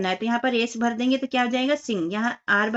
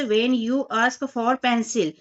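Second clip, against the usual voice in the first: slow read-aloud; much slower than usual. Shown as a demonstration. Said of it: "reading exercise prompt aloud".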